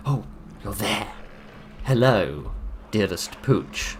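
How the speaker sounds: teasing pet greeting; mock sweet greeting. Greeting the monster dog.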